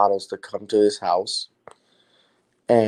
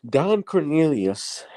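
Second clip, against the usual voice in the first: slow, high, stretched by a yawn; 7 semitones higher, slower than usual. Real, not acted. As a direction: say it through a yawn. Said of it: "I'm sorry, I'm yawning".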